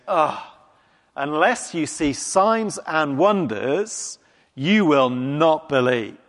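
slow, weary scolding with a groan; exasperated rebuke. Retold or imitated. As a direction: sigh it out like a fed-up teacher. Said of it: "Do you hear that tone of voice in it?".

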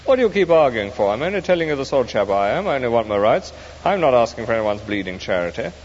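a touch of an irritated retort; exasperated ghost. Acted. The ghost argues with the spirit, mildly exasperated. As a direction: argue back, fed up.

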